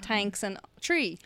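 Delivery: thanks said as "tanks", three as "tree"; plain t opening thanks and tree; Irish T for TH. Shown as a demonstration. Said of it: "it's not thanks or tree".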